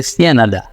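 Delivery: সিয়ানাডা, a deliberately wrong "sia-na-da"; bad সিয়ানাডা; wrong pronunciation. Shown as a demonstration. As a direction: mispronounce Canada as সিয়ানাডা on purpose. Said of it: "ভালো না, জিনিসটা ভুল".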